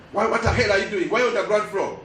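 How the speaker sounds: bursting out in disbelief; a manager losing patience with the engineer; exasperated. Retold or imitated. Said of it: "very annoyed".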